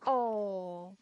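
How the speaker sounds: mock Irish-American twang, drawn-out falling vowels; imitating sister's accent. Mimicking baby sister Jane's speech, mock Irish-American accent. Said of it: "I bet you say things like".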